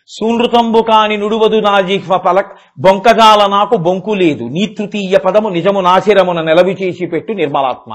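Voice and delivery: sing-song Telugu verse. Acted. Recites Bali's verse.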